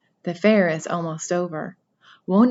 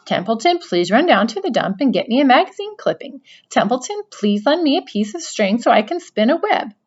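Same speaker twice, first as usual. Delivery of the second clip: grumbling rat; 5 semitones higher, 5 dB louder than usual. Acted. Rat voiced complaining.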